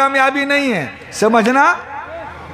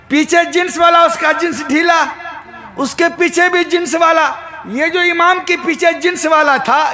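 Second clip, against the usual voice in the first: high, declaiming storyteller-preacher; raised preaching; 4 semitones higher than usual. Real, not acted. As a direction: call out each phrase to the crowd, pitched up. Preacher tells the mosque anecdote. (ऊँचे सुर में तक़रीर वाला क़िस्सा)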